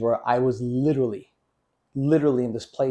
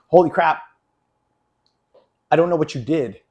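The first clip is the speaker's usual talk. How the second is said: excited exclamation; 3 semitones higher, 5 dB louder than usual. Retold or imitated. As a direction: blurt it out, amazed and loud. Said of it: "I said something much heavier than that".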